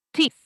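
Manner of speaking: "this" with a short forceful "ee", as "tees"; strong I. Shown as a demonstration. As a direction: punch the I in "this". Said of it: "hago más fuerza en la I".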